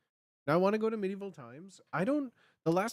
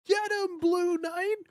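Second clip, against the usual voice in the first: much higher, whooping crowd cheer; 14 semitones higher, 5 dB louder, slower than usual. Retold or imitated. Fan at Medieval Times cheering the Blue Knight, whooping. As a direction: holler for your knight. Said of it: "I'm like".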